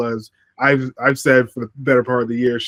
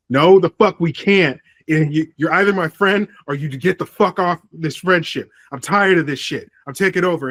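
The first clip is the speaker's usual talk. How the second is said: angry retort; 5 semitones higher than usual. Retold or imitated. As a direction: fire back like a fed-up leader. Acted angry reply in storyline.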